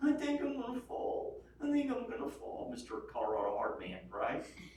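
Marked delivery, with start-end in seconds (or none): 0.0-2.7 put-on very high, baby-like whimpering. Retelling a scary rock climb, the speaker quotes his companion, imitating someone whimpering. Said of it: "He starts whimpering like a baby".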